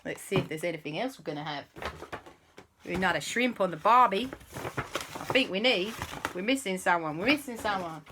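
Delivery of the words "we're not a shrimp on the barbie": quick, hammed-up Aussie accent; bad Australian accent. Storyteller jokes about shrimp on the barbie, mock Australian accent. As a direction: play up a bad Australian twang. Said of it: "Prepare for some really bad accents".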